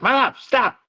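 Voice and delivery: put-on high, pleading kid voice; squeaky little girl calling out; daughter's voice. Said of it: "She's like".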